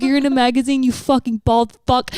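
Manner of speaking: mock-heated tirade at a stranger; going hard on him. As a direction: re-enact a heated telling-off. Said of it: "I went hard on this motherfucker".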